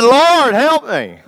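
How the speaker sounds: desperate plea. Retold or imitated. Peter sinking, calls to Jesus.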